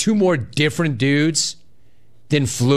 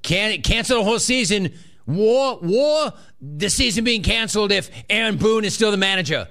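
high-pitched, hammed-up New York accent imitating the caller; mock the caller's New York twang, pushing every "war" higher; 8 semitones higher than usual. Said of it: "Bro, are you from New York?".

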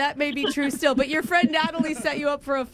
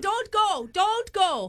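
high hammed-up plea in fake accent; mock pleading; 6 semitones higher, much slower than usual. Prank caller stops the interviewer leaving, in high mock pleading. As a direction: beg in a high, put-on voice.

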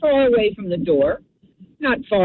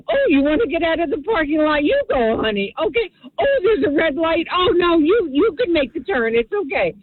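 Minnesota nice; 4 semitones higher than usual. Retold or imitated. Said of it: "Minnesota nice".

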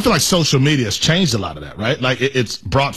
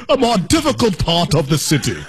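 mock British phrasing, laughing. Co-host mocking the British phrase, laughing. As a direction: quote "A more difficult part of the city" through laughter. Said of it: "That's such a British thing".

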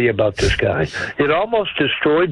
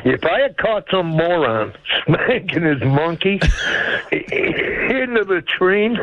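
laughing through words; 4 semitones higher than usual. Real, not acted.

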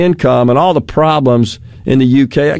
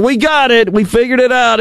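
high-pitched imitation of proud officials; mock triumphant announcement; 8 semitones higher than usual. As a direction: crow it like a big breakthrough, mockingly. Officials' boast quoted mockingly.

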